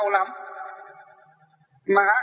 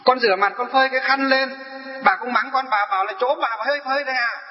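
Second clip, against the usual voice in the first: complaining elder; 2 semitones higher than usual. Retold or imitated. Follower complains about her roommate.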